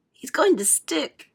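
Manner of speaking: put-on high, slow, hushed child voice; anxious child. A narrator's reading. Charlie watches the boy slow down, anxious. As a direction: draw it out in high suspense.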